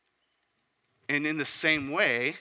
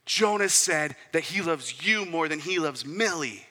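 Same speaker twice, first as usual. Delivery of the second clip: put-on higher, louder little-boy voice, slowing at the end; imitating his son; 4 semitones higher, 7 dB louder, slower than usual. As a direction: tattle like an indignant kid. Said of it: "And he goes".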